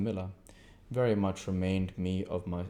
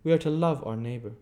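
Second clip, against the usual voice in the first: prim lady; 6 semitones higher, 5 dB louder than usual. Acted. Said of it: "observed another lady".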